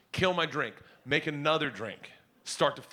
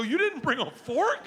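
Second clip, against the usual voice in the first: higher, laughing mock-gentle question; mock sympathy; 14 semitones higher than usual. Dad teasing daughter about forgotten fork, mock sympathetic. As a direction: tease her with fake concern.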